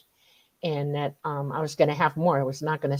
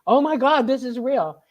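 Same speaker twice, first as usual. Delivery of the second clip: excited scream; 6 semitones higher than usual. Retold or imitated. Friend who saw UFOs too, screaming in excitement. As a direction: blurt it like a shock you can't hold in. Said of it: "She was just screaming".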